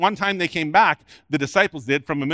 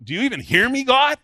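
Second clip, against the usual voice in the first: exasperated prayer; 6 semitones higher, 3 dB louder than usual. Acted. Voicing a doubting believer's prayer.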